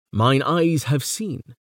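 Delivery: slow, stress on eyes and seen; eager exclamation. Shown as a demonstration. Lecturer imagining Howe exclaiming, eager. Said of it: "to exclaim in her eagerness".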